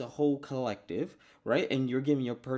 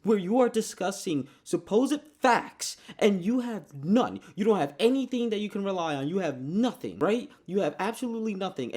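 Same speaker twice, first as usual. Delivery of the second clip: heated rant; 5 semitones higher, 4 dB louder than usual. Real, not acted.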